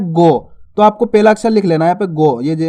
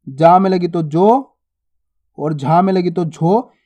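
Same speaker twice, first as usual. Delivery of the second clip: slow drill; slower than usual. Shown as a demonstration. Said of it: "किस प्रकार से?".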